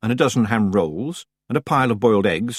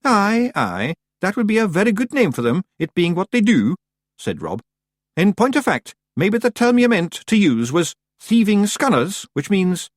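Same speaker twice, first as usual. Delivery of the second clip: high little Scottish chieftain; Rob Anybody; 10 semitones higher, 4 dB louder than usual. Acted. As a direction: squeak it like a tiny Scots rogue.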